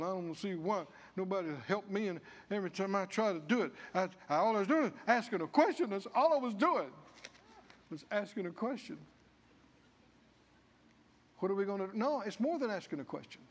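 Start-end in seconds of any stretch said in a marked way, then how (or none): 0.0-9.0 mock self-pitying grumble, fast; grumbling whine. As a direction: whine like a sulking complainer, mildly.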